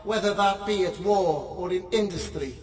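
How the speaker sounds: intoned, steady prayer reading; solemn prayer. Acted. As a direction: lead the congregation in prayer. Leads a prayer.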